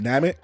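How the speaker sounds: "Namek" as NAM-ik, first syllable stressed; dub pronunciation. Shown as a demonstration. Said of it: "that's how they say it here".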